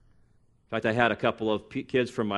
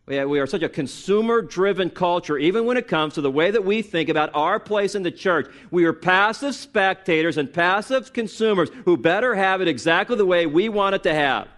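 higher-pitched, emphatic sermon delivery; forceful preaching; 6 semitones higher, 5 dB louder than usual. Real, not acted. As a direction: drive the rebuke home to the congregation. Preaches against consumer culture.

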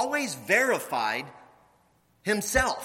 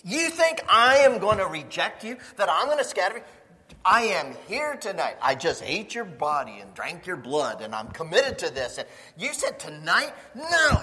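loud, heated arguing; yelling back at Jesus; vehement protest; 2 semitones higher, 5 dB louder than usual. Acted. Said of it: "he spoke more vehemently".

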